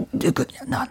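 숨소리로 속삭이는 대사; 속삭이듯 위협하게. Shown as a demonstration. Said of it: "목소리를 깔고". (속삭이며 깐 목소리)

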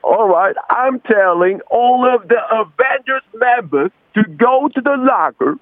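high, slow English movie-commander order; Samuel L. Jackson. Acted. Caller as a superhero chief ordering his team, high and slow. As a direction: impersonate an American film star giving orders, drawn out. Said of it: "그냥 사무엘 잭슨".

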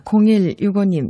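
name called with a falling Gyeongsang lilt on 공일육오님; Gyeongsang dialect. Acted. Radio DJ greets a listener in Gyeongsang accent. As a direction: say 공일육오님 in a Gyeongsang accent, pitch dropping at the end. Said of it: "이거 경상도 사투리 버전으로 해보".

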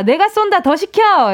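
high, bold treating-everyone shout; big spender bravado. Acted. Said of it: "이렇게 화통한 척".

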